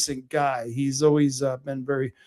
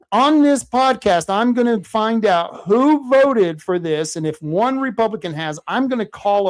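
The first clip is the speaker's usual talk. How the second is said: loud, higher vow; fired-up threat; 5 semitones higher, 4 dB louder than usual. Real, not acted. Host vowing to call out Republicans, loud and fired up. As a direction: push it out like a challenge.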